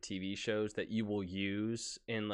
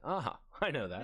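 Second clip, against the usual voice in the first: knowing laugh; 3 semitones higher than usual. Retold or imitated.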